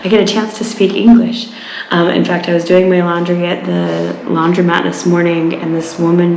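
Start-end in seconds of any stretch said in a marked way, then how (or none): 0.0-1.5 mock excited German. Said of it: "excited that they get to speak English".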